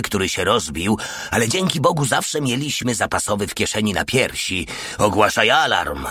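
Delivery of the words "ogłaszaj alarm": furious roar. Acted. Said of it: "ryknął z wściekłością".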